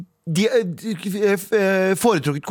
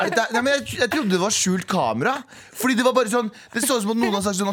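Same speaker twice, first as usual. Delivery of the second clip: ordinary delivery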